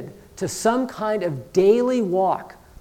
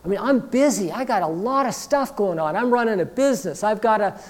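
slightly raised, whiny-edged objection; acted protesting excuse; 3 semitones higher than usual. Busy congregant objecting to daily devotion, acted protest. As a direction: plead overload, piling up the excuses.

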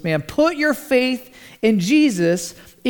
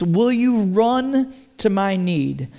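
pleading. Retold or imitated. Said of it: "he's pleading with Jesus".

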